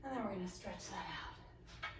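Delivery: breathless, whispered cues; speaking winded after exercise; out of breath. Real, not acted. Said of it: "Woo, I'm out of breath".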